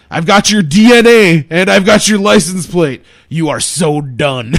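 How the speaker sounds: loud, firm threat to a thief; retold yell. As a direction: call it out like a mild yell. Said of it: "I yelled at him," Hendricks says".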